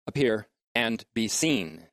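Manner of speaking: slow, leaning hard on "appear" and "seen"; stress on appear and seen. Shown as a demonstration. Teacher to class, stressing "appear" and "seen" slowly. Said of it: "the emphasis on the verb is".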